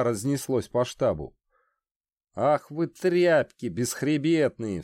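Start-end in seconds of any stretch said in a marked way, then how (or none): 2.3-4.8 boiling over. Acted. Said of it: "вскипел Зуд".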